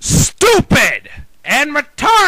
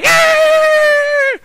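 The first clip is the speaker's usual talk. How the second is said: high, loud squeaky Kermit cheer; a shrill frog-puppet whoop; Kermit impression; 4 dB louder than usual. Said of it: "Kermit to say".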